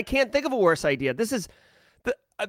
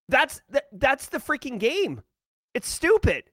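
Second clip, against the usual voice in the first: fed-up anger; 4 semitones higher than usual. Real, not acted. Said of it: "I'm so pissed".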